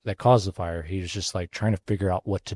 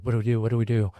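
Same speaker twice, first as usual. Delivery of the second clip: higher-pitched, mildly frantic retelling; mock panic; 4 semitones higher, faster than usual. Retelling a coworker's panic at the pit fire, mildly frantic. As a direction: imitate someone freaking out, urgently repeating. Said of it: "he's panicking, like, frantic, like, freaking out".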